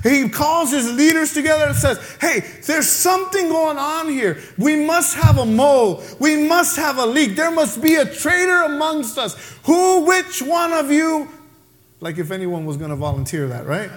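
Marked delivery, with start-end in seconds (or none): 2.2-11.3 a mildly exasperated king, voice a little raised; frustrated king. Acted. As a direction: demand it like a ruler who is fed up. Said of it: "the king gets so frustrated".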